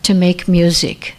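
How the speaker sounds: measured, unhurried poem read to the congregation. Shown as a demonstration. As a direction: lay each line down gently with a pause after it. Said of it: "this is a poem I'd like to read".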